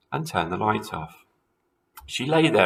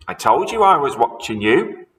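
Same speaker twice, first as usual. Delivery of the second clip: put-on higher, louder gloating old woman; cackling wife; 5 semitones higher, 5 dB louder than usual. A narrator's reading. Wife gloating at startled husband, cackling. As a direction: crow it like a witch. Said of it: "cackled Missus Twit".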